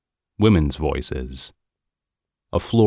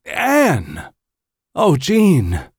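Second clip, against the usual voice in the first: high, frantic cry of relief, louder on the last name; frantic calling out; 10 semitones higher, 4 dB louder, much slower than usual. Acted. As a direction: call to her as you rush in. Husband finds wife after shooting.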